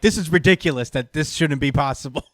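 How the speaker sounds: laughing through the quote; amused, half-laughing complaint; laughing disbelief. Retold or imitated. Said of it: "my characters are like".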